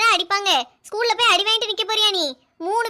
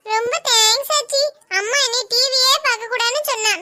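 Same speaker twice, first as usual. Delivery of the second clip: put-on little girl voice; 4 semitones higher than usual. Little girl thanks grandma.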